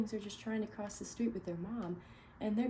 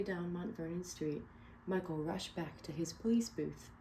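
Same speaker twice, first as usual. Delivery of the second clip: clear, expressive read-aloud narration; storybook reading. Acted. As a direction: read it to a room of kids. Reading picture book aloud.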